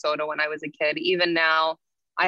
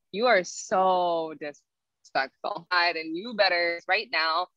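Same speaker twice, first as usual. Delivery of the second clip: stern scolding; slower than usual. Retold or imitated. Uncle scolding her.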